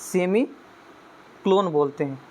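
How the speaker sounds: सेमीकोलन drawn out very slowly, syllable by syllable; slow repeat. Shown as a demonstration. Teacher repeating semicolon for the class, slowly. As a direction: stretch सेमीकोलन out so students catch it. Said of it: "क्या?".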